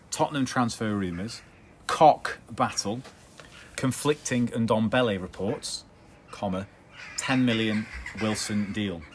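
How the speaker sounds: slowed down repeat of the headline. Shown as a demonstration. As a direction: read it again slowly and clearly. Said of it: "I'll just repeat it for you".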